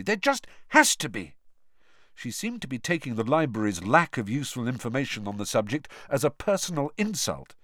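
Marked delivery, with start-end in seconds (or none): 0.0-1.3 higher, sharp and annoyed; cross. A narrator's reading. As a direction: insist crossly. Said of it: "Hermione said crossly".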